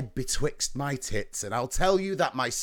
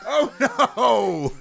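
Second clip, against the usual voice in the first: mock alarm; 6 semitones higher, 6 dB louder than usual.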